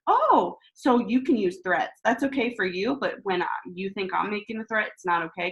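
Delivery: wife mocks husband's double standard; sarcastic. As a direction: needle him with sarcasm. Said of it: "I was like".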